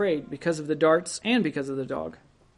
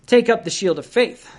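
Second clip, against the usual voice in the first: higher and louder, a preacher's call to arms; rousing exhortation; 4 semitones higher, 5 dB louder than usual. Real, not acted. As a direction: lift it up and proclaim it to the hall.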